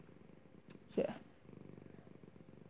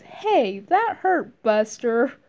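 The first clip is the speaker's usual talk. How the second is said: indignant yelp at being hit; hurt complaint; 3 semitones higher, much slower than usual. Retold or imitated. Reviewer imitating Marno taking damage, mock indignant. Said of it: "when she takes a lot of damage, she goes".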